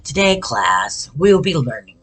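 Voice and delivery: slow, droning teacher voice; monotone teacher. Retold or imitated. Teacher from a commercial addressing his class, monotone drone. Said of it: "that talked monotone".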